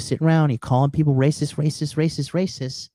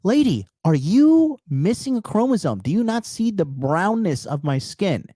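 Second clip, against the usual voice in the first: mock incredulous retort; 7 semitones higher than usual. Mom's retort retold.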